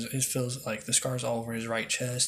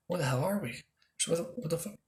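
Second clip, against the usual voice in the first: higher, bewildered alarm; confused shock; 6 semitones higher, faster than usual. Retold or imitated. A girl trapped in a red illusion, higher bewildered alarm. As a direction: sound lost in a strange red world. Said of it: "she's like".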